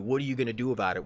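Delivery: fast, pushy taunt. Retold or imitated. Coworker taunting him, fast and pushy. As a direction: rush the challenge at him. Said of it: "and he's like".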